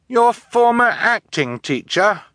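high, loud, drawn-out horrified question. A narrator's reading. Orphan learning of her guardian's betrayal, horrified. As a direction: ask it aghast, pitch shooting up. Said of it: "Violet asked in horror".

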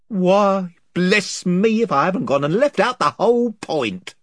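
rough, eager island chief, rambling on; a lightly voiced gossiping chief, wheedling. A narrator's reading. Chief voice again.

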